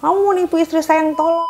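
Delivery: angry accusation. Retold or imitated. Husband calling the technician a fraud, angry. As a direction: spit out the accusation.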